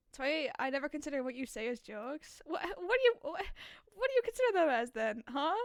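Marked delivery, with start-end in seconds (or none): 2.4-5.5 louder, higher indignant demand. Real, not acted. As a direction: call them out, offended. Indignant reply to chat.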